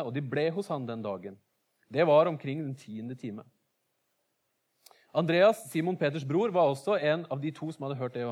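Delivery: measured reading of the Bible text; steady, careful Bible reading; scripture reading. Acted. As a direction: read the passage out to the congregation. Reads the Bible passage aloud.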